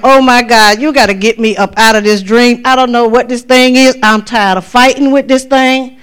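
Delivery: loud, urgent plea; loud pleading. Retold or imitated. Dreamer begging to wake up, loud and urgent. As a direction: beg to get out of the dream.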